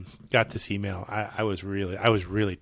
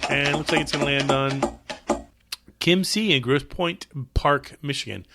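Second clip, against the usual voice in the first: hyped giveaway announcement; 4 semitones higher, 4 dB louder than usual. Acted. Announces the giveaway winner, music.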